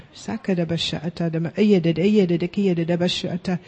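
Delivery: murmured tongues prayer syllables; speaking in tongues. Acted. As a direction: pray in tongues, flowing.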